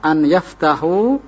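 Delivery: slow an yaftahu with a clear break between words; words separated. Shown as a demonstration. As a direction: say an yaftahu slowly, a pause after an. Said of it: "Bagaimana kalau dipisah?".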